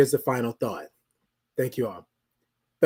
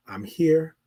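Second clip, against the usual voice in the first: whisper. Real, not acted. Repeated line, whispered.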